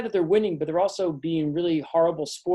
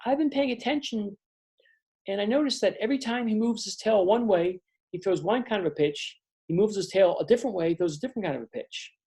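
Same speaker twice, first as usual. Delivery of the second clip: much higher, bright-eyed explaining; Blossom, eager; 3 semitones higher than usual. Acted. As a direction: share the secret with the team. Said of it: "And she says".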